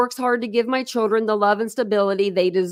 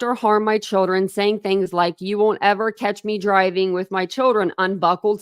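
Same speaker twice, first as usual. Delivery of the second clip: reading aloud. Shown as a demonstration. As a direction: read her words out to the audience. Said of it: "it says right here".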